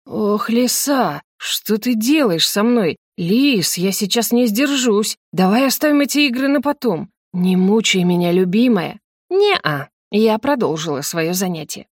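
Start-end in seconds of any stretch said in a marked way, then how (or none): 0.0-9.0 медленно, с протяжным «Ох»; взмолись, еле сдерживаясь; томная мольба. Acted. Husband begging under her caresses. 9.3-9.9 тонкое высокое поддразнивание; откажи мужу шаловливо, высоким голоском; игривый отказ. Acted. Playful refusal to husband.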